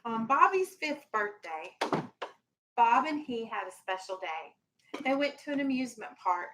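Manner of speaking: gentle storybook read-aloud for a class; lightly voiced picture-book reading; reading to children. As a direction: read it like story time on the rug.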